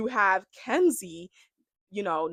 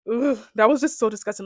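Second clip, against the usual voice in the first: grossed out; 3 semitones higher, 7 dB louder than usual. Real, not acted. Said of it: "I was just so grossed out".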